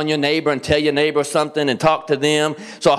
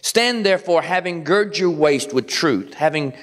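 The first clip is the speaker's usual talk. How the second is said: scripture reading. Acted. Preacher reads Ephesians to the church, solemn and measured. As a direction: read it out like the Word itself.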